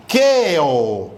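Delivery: QUEO with E and O held apart; vowels separated. Shown as a demonstration. Teacher showing students that open vowels separate, vowels held apart. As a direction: draw out QUEO as two vowels. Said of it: "Se separan".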